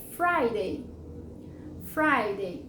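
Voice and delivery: "Friday" as FRY-day, stress first; model pronunciation. Shown as a demonstration. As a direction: model "Friday" carefully for students. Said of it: "vamos pronunciar cada uma delas".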